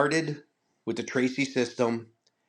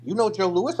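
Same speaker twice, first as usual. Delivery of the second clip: high, incredulous retold question; pitched-up mock disbelief; imitating amazement; 8 semitones higher, 3 dB louder than usual. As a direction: mimic someone astonished by the claim. Retold astonishment at famous name.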